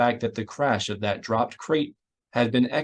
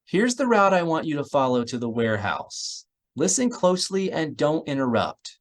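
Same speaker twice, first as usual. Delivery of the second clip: Miranda's voice; 5 semitones higher than usual. Acted. Miranda gives orders.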